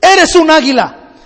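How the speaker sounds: urging cries at mild strength; mock yelling. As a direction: call up to a bird in a tree. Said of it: "le empieza a gritar".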